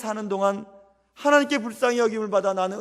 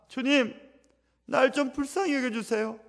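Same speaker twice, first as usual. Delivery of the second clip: fervent prayer; 4 semitones higher, 6 dB louder than usual. Shown as a demonstration. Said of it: "라고 기도하셔야 됩니다".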